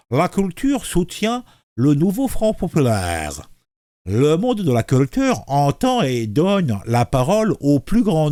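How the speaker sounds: lips pursed. Shown as a demonstration. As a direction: read it through tightly pursed lips. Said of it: "la bouche en cul de poule".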